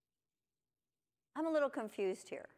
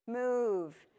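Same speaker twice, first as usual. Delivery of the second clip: urging a picture-book rabbit to flee, second move louder; playful warning building to a louder shout; mock urgent warning; 4 dB louder than usual. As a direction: hiss then yell move at the rabbit. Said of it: "I go".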